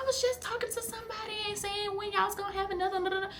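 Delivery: imitating a very high, gushing relative; excited congratulations. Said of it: "she go to congratulate me".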